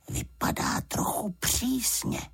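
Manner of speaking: whispered aside. A narrator's reading. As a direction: murmur it so she won't hear. Bear's aside to girl.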